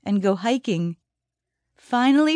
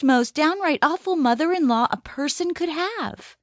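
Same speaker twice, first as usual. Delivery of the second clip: higher-pitched bitter rant; heated rant; 5 semitones higher than usual. Acted. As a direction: spit out the grievances. Shirley rants about mother-in-law.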